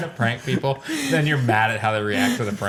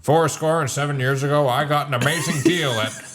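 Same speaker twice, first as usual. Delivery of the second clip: Lincoln car ad; 3 semitones higher than usual. Retold or imitated. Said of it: "Abraham Lincoln for, like, a Toyota dealership".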